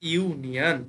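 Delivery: ইউনিয়ন opening on a clear "yu"; demonstrated pronunciation. Shown as a demonstration. Teacher models the word for learners, demonstrated ইউনিয়ন. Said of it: "উচ্চারণ কি হচ্ছে".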